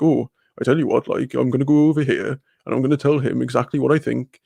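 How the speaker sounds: a light Swansea-ish Welsh accent, only lightly voiced. Showing chat how everyone talks back home, in a mild Welsh accent. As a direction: put on a hint of Swansea Welsh. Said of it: "it's Welsh as fuck".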